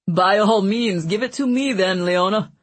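jovial glutton voice; Mancini voice. A narrator's reading. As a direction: boom it out like a greedy jester. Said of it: "Mancini said with a laugh".

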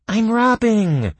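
high, loud, slow insistence; loud character voice. A narrator's reading. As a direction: declare it proudly. Character protests loudly.

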